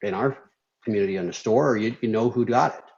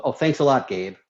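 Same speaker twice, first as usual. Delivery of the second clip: mock yell at Gabe; 2 semitones higher than usual. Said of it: "like, yells at Gabe".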